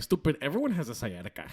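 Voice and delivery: put-on mom's Spanish accent. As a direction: lightly mimic a dismissive Spanish-accented mother. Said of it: "That's exactly how she said it".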